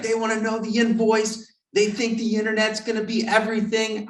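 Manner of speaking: pitched high, exasperated mock rant; upset manager. Manager fuming that customers now know the invoice, exasperated high rant. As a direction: vent like a manager who has lost patience. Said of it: "he was so upset".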